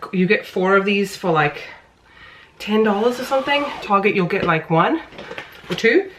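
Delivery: puffing after climbing stairs; winded, catching breath between words. Real, not acted. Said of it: "huffing from walking upstairs".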